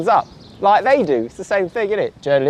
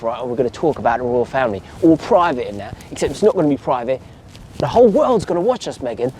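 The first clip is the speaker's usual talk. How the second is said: Cockney pitch, mostly lowered voice; Cockney Oprah; 4 semitones lower than usual. Retold or imitated. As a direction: coax a guest in casual Cockney. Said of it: "Cockney accent".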